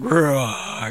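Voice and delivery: playful low monster roar; mock scary growl. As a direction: growl like a monster to tease the boy. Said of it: "growled in a scary voice".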